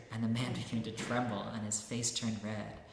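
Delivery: lively storybook reading, voicing each character; reading a story aloud. Teacher reading a parable to listeners, lively storytelling. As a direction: read the saint's tale to the audience, dramatizing it.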